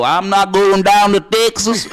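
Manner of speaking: slow mock Texan drawl on the words; Texan accent. British host imitating a Texan accent, slow and hammed. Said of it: "and I start talking like that".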